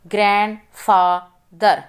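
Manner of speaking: ग्रैंडफादर drawn out slowly in its syllables; slow syllable reading. Shown as a demonstration. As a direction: read ग्रैंडफादर slowly for the class. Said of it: "Read the multi-syllable words".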